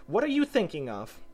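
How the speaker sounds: high-pitched scolding question; severe. A narrator's reading. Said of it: "said the mouse to Alice very severely".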